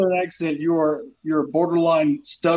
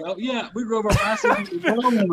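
mock drunk brag; 7 semitones higher than usual. Mocking his bragging drunk friends.

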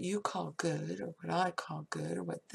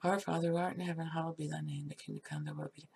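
rote recital; 3 semitones lower, faster than usual. Retold or imitated. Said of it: "like most people do".

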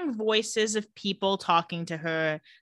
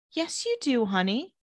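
sweetest voice; 3 semitones higher than usual. Retold or imitated. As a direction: coax gently, imitating a sugary mother. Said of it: "in, like, the sweetest voice".

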